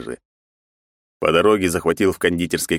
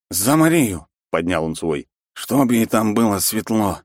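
put-on drunken toast; 3 semitones higher than usual.

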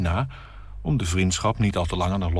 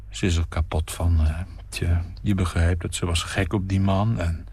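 mild dull lament. Acted. Narrator explaining the wife's grief, mildly dull. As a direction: state it flatly and gloomily. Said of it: "verklaar dof".

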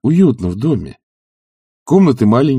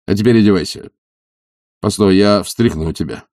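ordinary delivery, nothing marked

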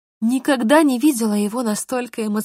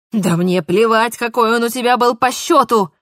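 roaring Mark; 4 dB louder than usual. Acted. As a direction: lose control on every word. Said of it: "буквально взревел Марк".

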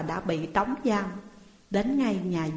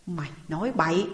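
magistrate shouting; 3 semitones lower, faster than usual. Acted. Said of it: "Quan quát lên".

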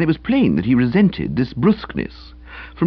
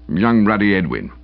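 sullen; 2 semitones lower than usual. Acted. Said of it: "he replied sullenly".

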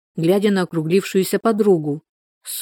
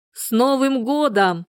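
mild cheer; 6 semitones higher, slower than usual. A narrator's reading. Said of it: "закричали соседи".

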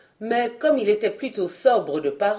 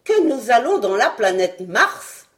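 plus haut et plus fort, lent et appuyé; le docteur martèle sa phrase; vieux savant insistant; 2 semitones higher, 6 dB louder than usual. Acted. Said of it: "prononça le docteur". (le savant corrige Fred, voix ferme et forte)

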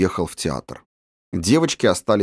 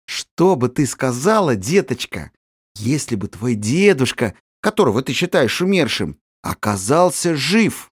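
gently coaxing; 3 semitones higher than usual. Acted. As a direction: ease the girl into the news. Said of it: "спросила так ласково и нежно, как только могла".

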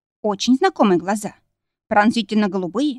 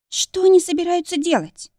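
trembling voice; 9 semitones higher than usual. A narrator's reading. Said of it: "дрожащим голосом спросила Дженни".

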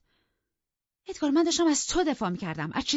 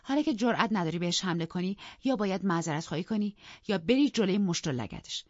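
higher, louder indignant scolding; heated, raised-pitch outburst; angry defiance; 4 semitones higher, 5 dB louder than usual. Acted. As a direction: defy your husband and rebuke him bitterly. Wife defies and berates both men.

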